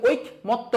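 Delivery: ঐকমত্য as "oik-motto", no vowel after k; pronunciation to avoid. Shown as a demonstration. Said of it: "বলি না".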